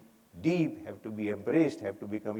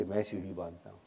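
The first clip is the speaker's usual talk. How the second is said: imitating a modest man, soft and lower; volunteer softly, without any show; quiet offer; 5 semitones lower, 10 dB quieter than usual. Damani offering when nobody comes forward, said very quietly. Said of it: "very quietly he'll say".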